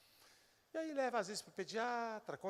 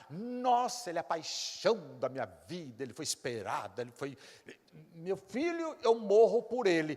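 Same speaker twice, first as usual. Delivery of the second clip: mock doting mother, louder; gushing mother; 3 semitones higher, 4 dB louder than usual. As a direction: ham up a mother's sweet vows. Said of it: "aquelas frases lindas".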